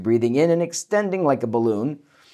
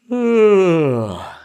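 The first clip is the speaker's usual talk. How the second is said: big high yawn sliding down; loud open yawn, falling; yawning sigh; 6 semitones higher, 6 dB louder than usual. Shown as a demonstration. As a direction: demo yawn, loud and descending.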